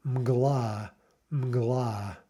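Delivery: "mgla" with M, G, L run together; three-consonant cluster. Shown as a demonstration. Teacher showing a consonant cluster, M-G-L run together. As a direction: say "mgla" as one syllable, no vowels between consonants. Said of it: "here we have a three".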